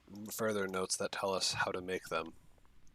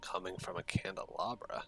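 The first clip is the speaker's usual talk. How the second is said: whispering; 5 dB quieter than usual. Real, not acted. Player reacting in disbelief.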